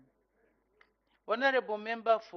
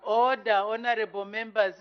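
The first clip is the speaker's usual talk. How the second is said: shouting order; 6 dB louder than usual. Real, not acted. Speaker calls House to order.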